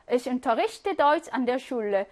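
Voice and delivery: very slow, word by word; slow dictation. Shown as a demonstration. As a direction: read it slowly so students can follow. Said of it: "예문 하나 추가해 보세요". (또박또박 아주 천천히 읽어 주기)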